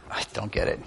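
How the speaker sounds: breathy whisper of not getting it; unvoiced aside; whispered confusion. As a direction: murmur it, puzzled, under your breath. Voicing own future confusion.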